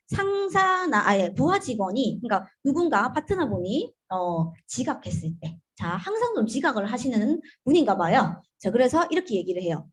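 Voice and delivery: normal talking voice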